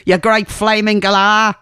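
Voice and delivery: a faint hint of an Australian accent; half-hearted Aussie accent on a TV catchphrase; barely-there Australian accent, lightly done; poor Aussie accent. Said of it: "sorry for the very poor Aussie accent there".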